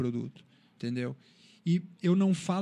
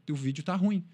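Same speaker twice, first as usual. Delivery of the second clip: understated blunt verdict; short and matter-of-fact, no softening; curt and blunt. Retold or imitated. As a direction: imitate a father giving it straight. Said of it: "ele foi curto e grosso".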